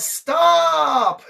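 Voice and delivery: high police shout of stop; shouted command. A narrator's reading. Police yell at the fart with a sharp high shout. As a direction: bark it like a cop.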